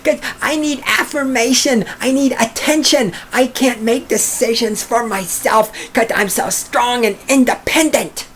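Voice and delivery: high, mocking voice of a needy woman. Mocking the letter writer in a high put-on voice. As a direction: sneer it out as a whiny girlfriend.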